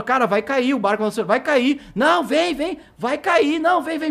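high-pitched insistent warning; urgent warning. Retold or imitated. Driver warning the man on the wobbly ramp, urgent. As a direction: re-enact a worried warning, voice climbing high.

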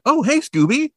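cartoon Shaggy coming to; imitating a dazed wake-up. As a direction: wake up oblivious and chirpy. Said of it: "wakes up and is like".

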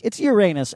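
"Uranus" as your-AY-nus; funny pronunciation. Shown as a demonstration. Host defending the joke-friendly name, old pronunciation. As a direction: stress the middle of "Uranus", like "your anus". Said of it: "that's the funny way to fucking say it".

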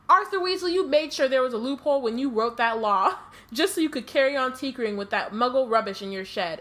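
wife scolding her husband for his sneaky loophole, loud and sharp. Acted.

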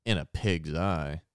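slow dismissive "In a pig's eye"; dismissive example read. Shown as a demonstration. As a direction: scoff it like strong disagreement. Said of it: "U S slang".

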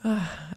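long exhale after tears; composing sigh. Real, not acted. Mother pausing to recover from crying, steadying sigh. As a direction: sigh to pull yourself together.

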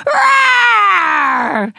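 sustained playful T-Rex roar; dinosaur roar. Acted. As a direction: join in with a big roar. Danny joins the roaring.

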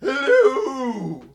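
hammy vampire voice greeting; a Transylvanian count saying hello; vampire accent. Pretend. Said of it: "you sound like a vampire".

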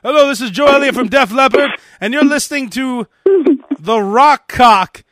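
A singer. Acted. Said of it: "read that liner".

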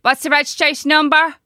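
high-pitched mock snooty operator; phone operator with attitude. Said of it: "it's the attitude the minute you ring".

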